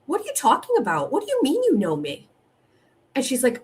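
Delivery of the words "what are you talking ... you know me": quick, higher, baffled demand; retelling her baffled quick-fire demand on the phone, incredulous. Retold or imitated. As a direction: fire off the questions in disbelief. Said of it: "I said".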